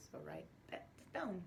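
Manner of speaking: softly whispered instruction; whispered classroom instruction. Shown as a demonstration. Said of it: "whispering during whisper word".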